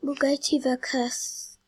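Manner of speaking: drowsy slow half-asleep whisper; nodding off, dragging the words. Real, not acted. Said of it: "I'm half asleep".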